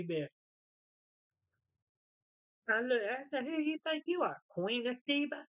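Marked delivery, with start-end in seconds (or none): 3.4-5.5 high-pitched mock challenge; retold indignant scolding. Owner confronting her huffy dog, mock indignant. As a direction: put an uppity pet in its place.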